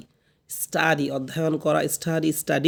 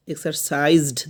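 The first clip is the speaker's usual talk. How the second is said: "এক্সারসাইজড" slowly, pushing into the final -zd; drawn-out "এক্সারসাইজড" with a shove at the end; pushed ending. Shown as a demonstration. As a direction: give "এক্সারসাইজড" a push on সাইজড. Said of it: "দেখছেন কি ধাক্কা দিচ্ছি".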